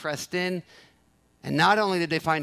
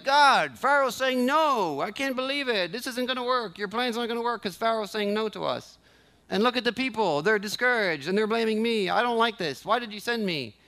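higher-pitched mock whining at God; complaining Moses; 3 semitones higher than usual. Preacher acting out last week's Moses protesting to God, complaining. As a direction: imitate a discouraged complaint, voice lifted. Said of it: "we don't see Moses complaining anymore".

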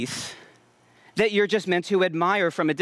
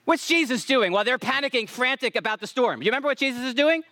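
raised, ringing sermon delivery; emphatic preaching; 5 semitones higher than usual. Real, not acted. Preacher retelling Jesus asleep in the storm, emphatic preaching.

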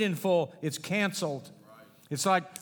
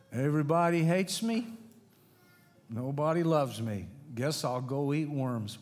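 mock pity party; 2 semitones lower than usual. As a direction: whine like a sulking child, fading to a fake "wah, wah". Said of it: "So you have a pity party".

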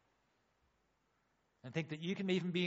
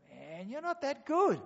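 wry put-down; 10 semitones higher, 4 dB louder, slower than usual. Retold or imitated. Mock self-judgement aside.

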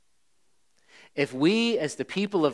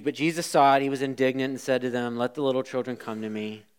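fast, flat read-through without feeling; indignant said as if it meant nothing; flat rote reading; 4 semitones lower, faster than usual. Shown as a demonstration. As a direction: rattle it off like a rote Bible reading. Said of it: "See, sometimes we read this and we".

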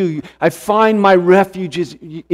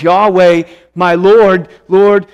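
fervent cry; 5 dB louder, slower than usual. Acted. Voicing David's confession, rising intensity.

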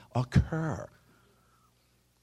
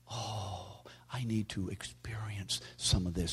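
mock whispered penance; 6 dB quieter than usual. Quoting his flesh's false humility.

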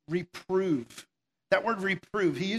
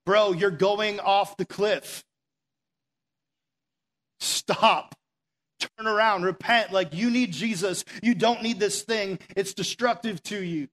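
louder, slowed-down firm warning; stern call out; 3 semitones higher, 4 dB louder, slower than usual. Retold or imitated. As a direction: stop a friend at the cliff edge. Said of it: "they need a stern, like, call out".

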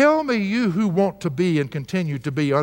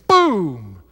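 mock boom; 6 dB louder than usual. Mimics a harsh email.

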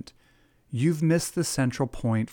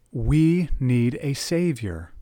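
slow emphatic; 3 dB louder, slower than usual. Acted. Emphatic preaching.

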